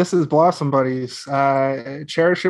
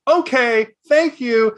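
high, curt teacher brush-off; a polite but final okay; teacher politely shutting the student down; dismissive teacher; 8 semitones higher, much slower than usual. Retold or imitated. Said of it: "the teacher just goes".

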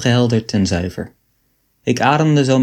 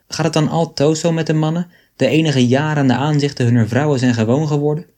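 put-on grating old she-ape; 3 semitones higher than usual. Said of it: "knarste deze Proserpina".

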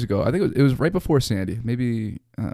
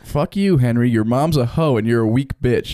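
mock translation insult. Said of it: "Can I try to read it?".

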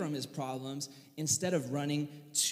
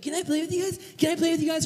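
put-on whiny little kid; 11 semitones higher, much faster than usual. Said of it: "he's like".

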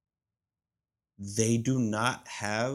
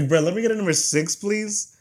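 higher, louder pleading order; customer ordering; 11 semitones higher, 10 dB louder than usual. Retold or imitated. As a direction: ask sweetly for the six. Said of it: "I was like".

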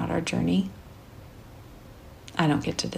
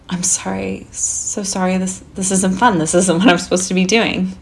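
crying apology; 4 dB louder than usual. Retold or imitated. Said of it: "I apologize because I'm crying".

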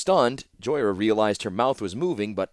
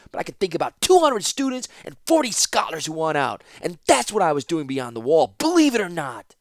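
loud, high, fast furious tirade; roaring back; 12 semitones higher, 5 dB louder than usual. Acted. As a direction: roar it back at the master. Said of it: "roared right back at the man".

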